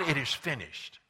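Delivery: loud, triumphant proclamation in a preacher's voice; forceful declaration, voicing Jesus on the cross; crying out. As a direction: cry out the victory at full voice. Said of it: "and he cried".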